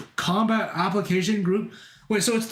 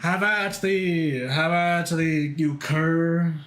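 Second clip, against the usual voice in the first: slow, hammed-up duelling challenge; lightly played medieval challenger; slower than usual. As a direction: declaim it lightly like a mock knight. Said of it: "go with me to the medieval ages".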